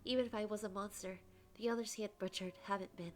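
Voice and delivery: expressive first-person storytelling; story narration. A narrator's reading. Condemned prisoner recounts being pelted, dramatic narration. Reads the game's narration aloud.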